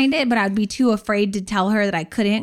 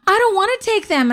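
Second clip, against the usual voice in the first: put-on high whiny teen refusal; pitched-up bratty refusal; sulky teen; 10 semitones higher than usual. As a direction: whine it like a stubborn teenager.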